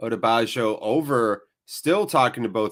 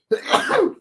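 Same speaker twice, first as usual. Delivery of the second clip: sneeze; 4 dB louder than usual. Real, not acted. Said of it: "I'm gonna sneeze".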